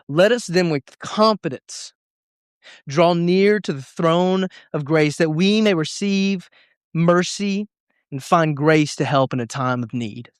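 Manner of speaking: slow, measured Bible reading; scripture reading. Acted. Pastor reading a verse to the youth group, slow and measured. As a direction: read the verse slowly and deliberately.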